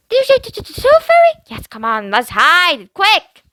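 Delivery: little sister terrified of the tooth fairy; scared stammer. Acted. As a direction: stutter out the words in panic. Brianna voiced, stammering.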